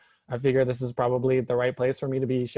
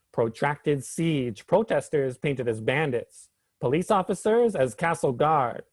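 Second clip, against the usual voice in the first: measured, rhythmic poetry recitation; spoken word poem. Acted. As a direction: deliver it as a protest poem, phrase by phrase. Recites own protest poem.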